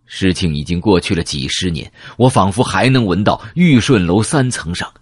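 ordinary delivery

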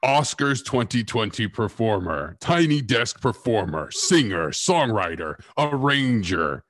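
big showy introduction, drawing out the final words; Hollywood announcer voice. Acted. Host introducing a singer guest in a Hollywood voice. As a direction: play the hyped-up awards announcer, building to the name. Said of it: "I have to use my Hollywood voice".

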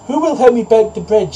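high-pitched storybook hen; little hen's high appeal for help; little hen calling. A narrator's reading. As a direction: call out to the neighbours in a high voice. Hen calls her neighbours for help.

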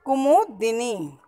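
कुमुदिनी slowly with a clear short "di"; careful model pronunciation. Shown as a demonstration. Teacher models the vowel mark, slow careful कुमुदिनी. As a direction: spell out कुमुदिनी by ear, slowly. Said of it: "द में छोटी की मात्रा".

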